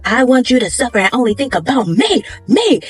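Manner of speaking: slow, building to a shouted me; mild menacing yandere. Retold or imitated. Jaemin threatening Taeyoon, slow menace rising to shout. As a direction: creep it out then snap on me.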